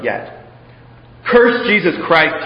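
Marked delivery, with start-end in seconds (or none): 1.3-2.4 slow, loud, higher command; demanding. Acted. Proconsul ordering the old prisoner, slow loud demand. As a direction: bark the order, slow and hard. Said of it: "he demanded".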